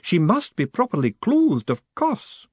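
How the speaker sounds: high, slow, stern matron's voice; a formidable lady laying down the law; imperious high-pitched battleaxe; demanding old woman. Acted. Matron's voice held.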